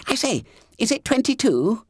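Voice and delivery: high, hushed schoolboy whisper; squeaky fat boy whispering in class; Bunter's whisper. A narrator's reading. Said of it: "whispered Bunter".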